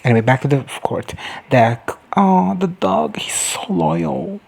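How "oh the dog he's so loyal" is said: high, drawn-out gushing. Real, not acted. Viewer adoring the loyal dog on screen, gushing. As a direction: coo slowly over a beloved dog.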